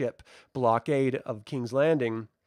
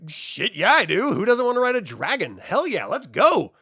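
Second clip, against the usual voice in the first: higher and louder, pumped-up agreement; eager yes; 7 semitones higher, 5 dB louder than usual. Retold or imitated. The knight answering the queen about riding a dragon, pumped and higher. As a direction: jump at the chance, thrilled. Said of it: "And he's like".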